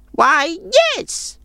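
high crone voice, grudgingly curious; grudging old woman. A narrator's reading. Old woman grudgingly asking the traveller to show her, high crone voice. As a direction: give in reluctantly as an old crone.

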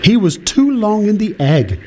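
high-pitched storybook mother duck; high character voice defending her duckling; mother duck explaining. Acted.

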